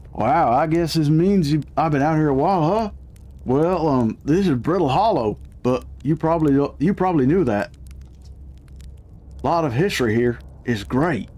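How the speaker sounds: lightly put-on American South accent. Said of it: "he's gotta have an American South voice".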